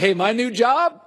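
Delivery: mock bragging. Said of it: "he was just bragging like".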